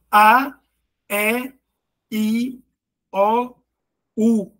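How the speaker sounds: "A, E, I, O, U" one at a time, from open to closed; articulated vowel demo. Shown as a demonstration. Teacher showing students mouth openness, "A, E, I, O, U" articulated singly. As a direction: sound out each of "A, E, I, O, U" separately, punching the A. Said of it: "E o U é o mais fechado, ó".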